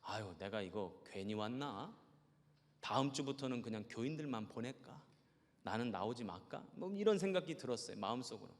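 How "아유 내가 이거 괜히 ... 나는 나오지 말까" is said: discouraged inner voice. Retold or imitated. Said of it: "마음속에 그런 생각이 들어요".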